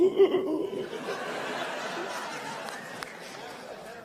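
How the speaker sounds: high voiceless mock gasp; imitated horrified reaction. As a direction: mimic a newsroom aghast, without words. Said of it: "they'll be like".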